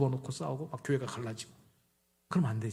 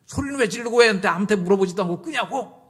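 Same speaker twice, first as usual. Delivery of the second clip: high, loud indignant challenge; angry wife; 8 semitones higher, 6 dB louder than usual. Shown as a demonstration. Wife confronting husband for shouting, angry high protest. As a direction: confront him angrily, pitched well up. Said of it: "이런 화내도 돼요".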